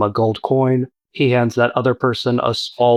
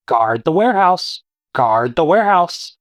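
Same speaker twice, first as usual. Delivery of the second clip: creature squawk; 5 semitones higher than usual. Acted. GM voices creature inside.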